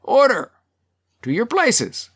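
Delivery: chairman calling out over uproar; voice above noise. A narrator's reading. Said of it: "The chair's voice now rose above the noise".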